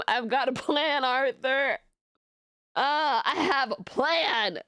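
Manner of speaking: a slow, lightly voiced Dutch from Red Dead; Dutch impression. Streamer finally gets the Red Dead quote out, slow. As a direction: drag it out like the gang leader. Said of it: "every time I hear".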